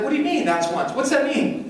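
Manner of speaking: high-pitched, baffled husband; high puzzled newlywed. Retold or imitated. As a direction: squeak out the confused questions. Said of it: "I'm like".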